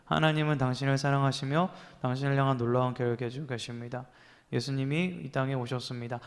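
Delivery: bored mumbled reading aloud; careless reading. Shown as a demonstration. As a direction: rattle it off like you don't care. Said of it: "이렇게 읽었습니다".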